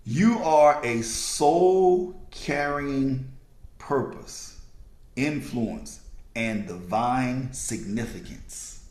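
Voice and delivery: slow, low and measured, word by word; spaced out for people writing it down; slow dictation. Real, not acted. Speaker dictating a sentence for listeners to write down, slowly. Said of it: "I'm gonna say it slow".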